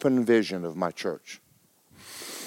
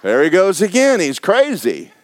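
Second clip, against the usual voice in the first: gossiping; 8 semitones higher, 5 dB louder than usual. Retold or imitated. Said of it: "the people are going".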